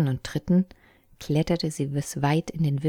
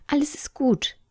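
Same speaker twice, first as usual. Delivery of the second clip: calm him in a whisper; whispered reassurance; 12 semitones higher than usual. A narrator's reading. Sister whispers to her brother that all is fine, whispered. Secret reassurance near danger.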